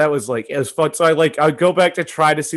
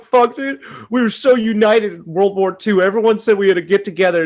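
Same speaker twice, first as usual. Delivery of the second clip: higher and louder, laughing gush of pride; patriotic gush; 7 semitones higher, 4 dB louder than usual. Retold or imitated. Telling a friend how proud the film made him, gushing. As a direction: swept up in mock patriotic fervor. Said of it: "I'm like".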